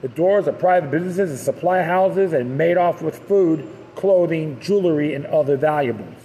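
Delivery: steady documentary reading voice; article narration. A narrator's reading. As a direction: read it like a history narration. Reads a history article aloud.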